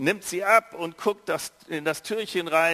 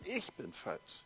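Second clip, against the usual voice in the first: much softer, almost breathed out; hushed shame; 4 semitones lower, 14 dB quieter, slower than usual. Shown as a demonstration. Preacher echoes the shame, far softer. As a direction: let it fall away to a hush. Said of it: "nicht nur was falsch gemacht".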